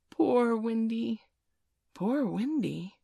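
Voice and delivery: slow, drawn-out wavering cry; plaintive call. A narrator's reading. Nibs echoing the weary bird's cry, plaintive call. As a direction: stretch it out high and mournful.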